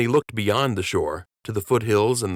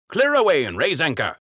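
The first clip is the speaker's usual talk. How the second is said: raised, high calling voice; calling out orders; 9 semitones higher, 4 dB louder than usual. A narrator's reading. King calling to the crew, raised voice. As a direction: call the order across the deck. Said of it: "he called".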